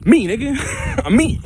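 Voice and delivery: high and loud, proudly answering back; laughing, loud self-declaration; loud defiant answer. Real, not acted. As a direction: shout it like a proud comeback. Defiant answer to parents' question.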